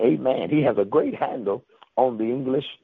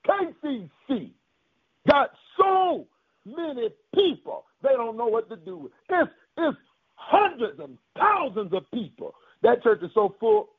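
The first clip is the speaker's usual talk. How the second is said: high, emphatic preacher delivery; preaching; 10 semitones higher than usual. Real, not acted. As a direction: preach it out in punchy, raised phrases. Preaches at full force.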